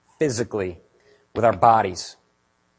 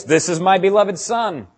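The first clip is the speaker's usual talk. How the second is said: higher and louder, slow and ringing; shouted quote of God; 7 semitones higher, 6 dB louder than usual. Retold or imitated. Pastor quoting God at the baptism, loud proclaiming. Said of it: "God's voice".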